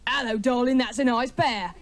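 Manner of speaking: mock street catcall from a bloke; mating call. Bloke calling to a passing woman, mock catcall. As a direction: call it out like a leering heckler. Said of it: "he gently utters the tender mating call".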